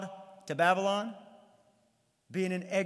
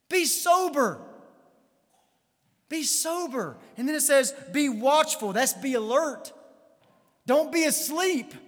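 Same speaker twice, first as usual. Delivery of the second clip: impassioned preaching; 5 semitones higher than usual. Real, not acted. Preacher warning a congregation they are in a war, impassioned preaching. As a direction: preach it urgently, higher in pitch on the key warnings.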